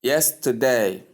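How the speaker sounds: yesterday with YES stressed; a clear, falling YES-terday for repeating; first-syllable stress. Shown as a demonstration. Teacher asking learners to repeat yesterday, first syllable stressed. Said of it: "Can you say this after me?".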